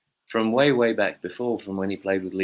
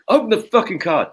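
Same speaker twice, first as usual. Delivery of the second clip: mock yell; 12 semitones higher, 7 dB louder than usual. The speaker insisting on birthday card.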